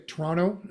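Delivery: "Toronto" said as "Tronno", second t dropped; "Toronto" run together as "Tronno"; Canadian Toronto. Shown as a demonstration. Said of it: "as we say".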